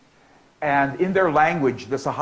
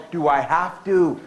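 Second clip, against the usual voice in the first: snotty voice; 2 semitones higher, slower than usual. Shown as a demonstration.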